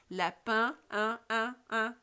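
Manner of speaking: "Lapin", then its final "un" echoed alone; sound picked out. Shown as a demonstration. Teacher tests pupils' ear, echoing "un" out of "Lapin". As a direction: say "Lapin", then repeat the nasal "un" separately. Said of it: "Vous entendez le son un?".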